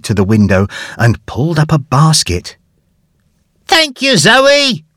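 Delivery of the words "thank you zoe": high, called thanks; Huxley calling his thanks downstairs. A narrator's reading. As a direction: call it down from the window. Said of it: "he called".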